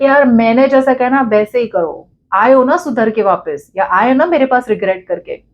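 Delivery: mildly haughty demand to be obeyed; arrogant, pushy. Acted. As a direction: lay down terms with a touch of arrogance. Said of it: "एक sense of arrogance दिख रही है".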